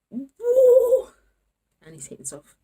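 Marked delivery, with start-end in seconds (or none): 0.1-1.1 loud high "woo"; sudden piercing cheer of relief; whoop. Real, not acted. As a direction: let out a big high whoop. Celebrates after taking hair wrap off.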